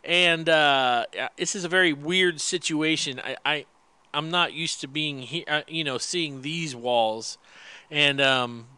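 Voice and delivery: echoey big room; cave echo. Real, not acted. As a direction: voice bouncing off bare walls. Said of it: "You sound like you got a reverb on you".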